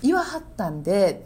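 lightly demonstrated Kyoto honorific; gentle Kyoto-dialect phrasing; soft Kyoto dialect. Shown as a demonstration. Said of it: "なんかこう柔らかい". (柔らかい京都弁で)

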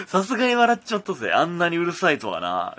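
lightly voiced smug thug; tough-guy letter voice. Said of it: "こんな口調の脅迫状". (悪役っぽい口調で)

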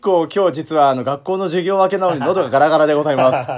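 rough, scratchy throat; talking through a raspy sore throat; hoarse voice. Real, not acted.

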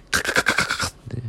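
soft voiceless clicking "カカカカ" for a scratching pen; imitated scratch of a capless pen; pen scratching noise. Shown as a demonstration. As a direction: tap out the pen noise with breath only.

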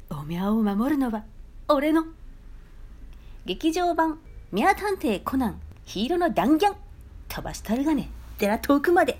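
hammed-up Nagoya dialect trailer voice; mock movie trailer in heavy Nagoya dialect; retold Nagoya-dialect movie ad. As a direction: boom it out like an over-the-top trailer in thick Nagoya dialect. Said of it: "っていう内容だったんですけどね".

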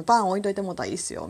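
rattled off fast, slurring the polite ending; rushed casual speech. Retold or imitated. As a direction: hurry through it, いいっすよ swallowed. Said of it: "ちょっと早口になってしまう".

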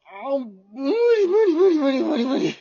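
frightened whimpering no no no; panicked refusal. Acted. Husband too scared to lead, whimpering. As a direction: beg not to go, voice cracking.

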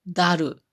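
ダル said with a d sound, da-ru, not za-ru; Wakayama pronunciation. Shown as a demonstration. Speaker showing how Wakayama folk say ザル, ダル with d. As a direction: say ダル with a d where standard has z. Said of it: "ザルやったら".

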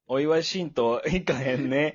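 slow, jokey mixed-up Kansai dialect; muddled Kansai dialect. Pretend. Slow fake Kansai dialect doubling the joke. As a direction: drag out a wrong Kansai phrase. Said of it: "どこの言葉よ".

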